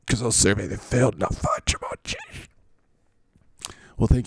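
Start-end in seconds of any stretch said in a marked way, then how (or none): 0.1-2.1 mock choked-up voice; Mister Browning. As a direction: pretend to fight back tears through the boast. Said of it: "I'm getting choked up now".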